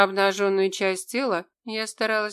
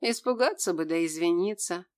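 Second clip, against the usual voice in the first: usual speaking voice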